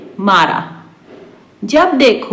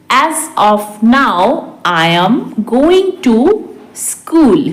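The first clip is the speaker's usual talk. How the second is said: very measured, with pauses; slow repeat; slower than usual. Shown as a demonstration. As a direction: stretch each phrase for learners. Teacher repeats translation word by word. (बहुत धीरे, रुककर)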